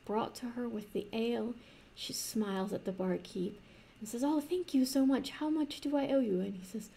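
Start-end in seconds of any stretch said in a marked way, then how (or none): 4.2-6.4 put-on a lightly raised, eager young princess. Princess thanking the barkeep for her meal, lightly raised voice. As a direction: thank him like a delighted sheltered girl.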